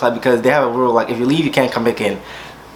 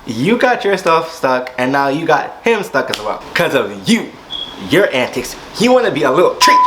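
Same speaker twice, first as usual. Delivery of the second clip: sassy viewer voice; 4 semitones higher than usual. Retold or imitated. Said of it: "you're probably looking at me like".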